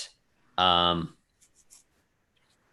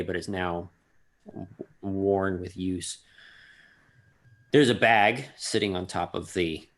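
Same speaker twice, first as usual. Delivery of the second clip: game master's scene setting. A narrator's reading. Game master describing an altar to the players, measured narration. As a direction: describe the place with deliberate pauses.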